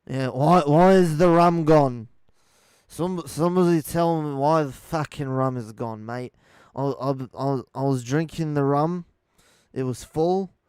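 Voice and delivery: loud, hammed-up drunken pirate impression; rough British-accented pirate, very loud; Johnny Depp. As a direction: bellow it like an outraged pirate out of rum. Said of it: "I can't do an amazing, uh, Johnny Depp".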